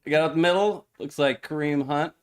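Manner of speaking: game call with punched big plays; live play-by-play. Real, not acted. Co-host calling the game for livestream viewers, play-by-play. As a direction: call the football action as it unfolds.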